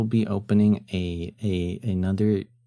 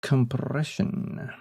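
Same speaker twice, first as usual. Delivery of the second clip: drawn-out word; 4 semitones higher, much slower than usual. Shown as a demonstration. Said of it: "I think it's compression too".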